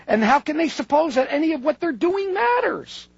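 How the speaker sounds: frustrated reading, pitch climbing at the questions. Retold or imitated. Lecturer quoting a writer baffled by cheerful people, frustrated. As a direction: read it as mounting, exasperated disbelief. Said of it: "his frustration with this".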